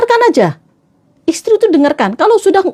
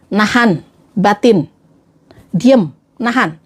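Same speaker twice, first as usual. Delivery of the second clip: slow, separated words; holding it in; 5 semitones lower, slower than usual. Shown as a demonstration. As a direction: drag each word as if holding back. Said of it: "orang yang diam biasanya gini". (menahan batin, lambat terputus-putus)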